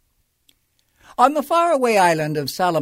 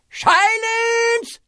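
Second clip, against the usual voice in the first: very high, loud furious bark; barked silence; 4 dB louder than usual. A narrator's reading. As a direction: bark the order to shut him up. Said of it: "barked back".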